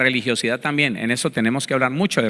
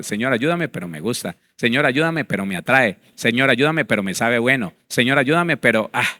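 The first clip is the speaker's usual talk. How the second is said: pleading for help, then dropping low on the excuse; a half-hearted plea that gives itself away; mocking a prayer that wants to keep the sin; mock insincere prayer; 3 semitones lower than usual. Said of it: "No, así no es".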